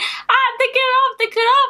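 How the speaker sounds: acted-out screaming. Speaker recounts screaming on the floor while everyone looked: retelling a scream. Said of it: "I was literally just screaming".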